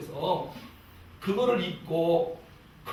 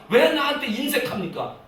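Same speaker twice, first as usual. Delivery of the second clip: raised, higher mock accusation; complaining prayer; 7 semitones higher, 4 dB louder than usual. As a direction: imitate someone reproaching God for stinginess. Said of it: "항상 하나님 앞에 원망 불평하고". (높은 목소리로 원망하는 흉내)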